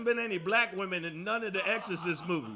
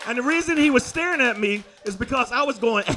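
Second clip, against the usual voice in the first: laughing fit; 2 semitones higher, 6 dB louder than usual. Real, not acted. High on an edible, laughing.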